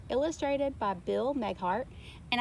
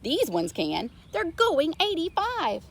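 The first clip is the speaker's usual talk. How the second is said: sheriff yelling; 6 semitones higher, 3 dB louder than usual. A narrator's reading. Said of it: "Sheriff yelled".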